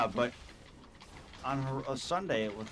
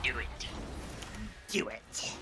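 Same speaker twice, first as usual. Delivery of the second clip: Palpatine voice; 7 dB quieter, much slower than usual. Retold or imitated. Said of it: "No, it's Palpatine".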